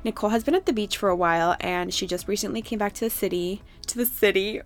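jittery, rushing through the words after coffee; too much coffee, words tumbling out fast; wired on caffeine. Real, not acted. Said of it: "really wired".

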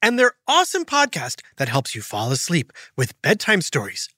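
upbeat podcast ad read. Acted. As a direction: sell it bright and friendly.

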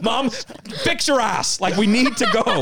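half-laughing retold scold; aggressive.

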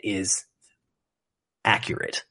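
whisper. Real, not acted. Drops to whisper.

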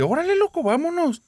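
very high, urgent cry; urgent calling out. Retold or imitated. Girl urging boyfriend to drive away, very high urgent cry. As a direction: push him to go now. Starting the car, urging him.

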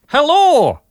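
a loud, high, hammed-up Scottish "Hello!"; Scottish accent. Reading a listener's email aloud, in a hammed-up Scottish accent. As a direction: bellow "Hello!" in a mock Scottish voice. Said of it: "start with Welsh".

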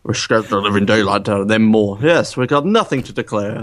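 lightly voiced suave Bond impression; Roger Moore. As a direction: lightly imitate a smooth English spy. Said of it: "Like, more could deli".

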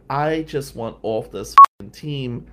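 loud, slow, fed up; student begging the teacher to let him quit; angry plea. Retold or imitated. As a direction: drag it out in frustration. Pleading with teacher, upset.

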